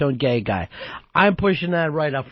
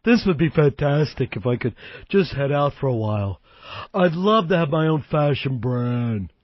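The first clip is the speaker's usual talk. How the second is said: baritone gay guy voice; 3 semitones lower than usual. Retold or imitated. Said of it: "doing the baritone gay guy talk".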